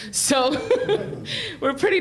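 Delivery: short amused laugh. Real, not acted. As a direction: laugh it off lightly. Laughing about immigrant office.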